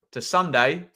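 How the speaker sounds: muffled into a cup; talking into a cup. Real, not acted. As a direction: mouth behind a mug. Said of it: "Sorry, I'm talking into my cup".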